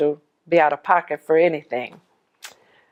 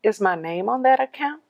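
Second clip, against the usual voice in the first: very nicely; 4 semitones higher than usual. Retold or imitated. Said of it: "I said very nicely".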